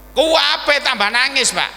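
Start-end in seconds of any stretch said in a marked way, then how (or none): none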